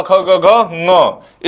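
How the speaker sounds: ख ग घ ङ drawn out very slowly, one at a time; letters spaced out. Shown as a demonstration. Teacher listing the क row to students, very slow. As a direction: read ख ग घ ङ at a crawl. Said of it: "पूरा पूरा क".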